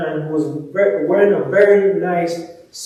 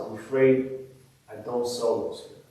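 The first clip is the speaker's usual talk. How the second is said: softer and lower, regretful; 6 semitones lower, 10 dB quieter than usual. Acted. Pharmacist breaking bad news to the little girl, lowered voice. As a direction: let her down gently, voice dropped. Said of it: "lowered his voice and said".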